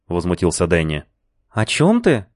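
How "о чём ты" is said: high, startled question; sudden shock at the news; surprised. A narrator's reading. Lina stunned by the boss's announcement, surprised. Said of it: "спросила Лина с широко раскрытыми глазами".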